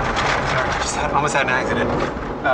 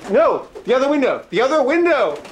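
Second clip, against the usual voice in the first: loud, much higher frantic shouts; frantic yelling; 12 semitones higher, 5 dB louder than usual. Real, not acted. Frantically shouting at pigeons to use the other window. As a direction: yell to steer the birds.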